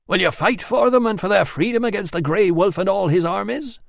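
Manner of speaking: a solemn goddess calling out; commanding goddess voice. Acted. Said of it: "the woman".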